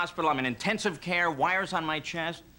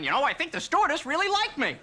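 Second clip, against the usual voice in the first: smug passenger; 10 semitones higher than usual. Retold or imitated. Deluded passenger.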